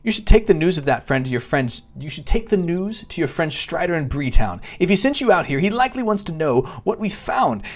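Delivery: high, lilting theatrical character voice; animated constable with big pitch swoops; chatty village constable. Acted. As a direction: play a friendly, hammed-up quest-giver. Reads the constable's quest text in character.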